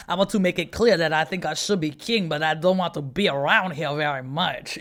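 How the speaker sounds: a hammed-up, jokey French accent; bad French accent. French kings who rule England but hate it, in a mock French accent. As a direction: put on a cartoonish French accent, lightly. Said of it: "always fine to do the bad French accent".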